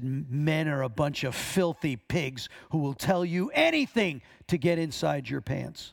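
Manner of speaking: mock hostile, cutting, harsh, angry outburst. A pastor retells a woman's answer about men; retelling a harsh, angry tone. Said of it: "in a really harsh, ... angry tone".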